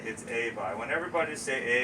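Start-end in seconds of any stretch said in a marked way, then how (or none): 0.3-0.7 "a buy" with an opening "ay", ending like "bye"; Newfoundland "a buy". Shown as a demonstration. Teaching visitors to agree, "a buy" said "ay-bye". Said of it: "It is harder to say than what you think".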